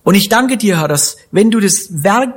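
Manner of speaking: earnest spoken prayer addressed to God; closing prayer. Real, not acted. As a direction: pray it aloud for the congregation. Pastor leads closing prayer.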